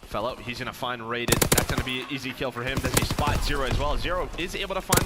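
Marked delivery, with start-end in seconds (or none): 2.8-5.0 building to a high loud call; rising excitement as the kills land; excited play-by-play. Acted. Kill streak play-by-play, rising.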